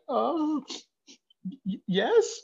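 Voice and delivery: overwhelmed gratitude breaking into a laugh; reliving shock, laughing; stunned laugh. Retold or imitated. Stunned by the gift.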